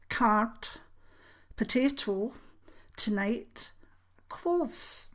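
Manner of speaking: word list in a clear mid-Scots accent; carefully understandable. Shown as a demonstration. Reading accent-tag words for viewers, carefully understandable Scottish. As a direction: say each word singly and distinctly, pausing between. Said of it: "said them the way that they would be definitely understood".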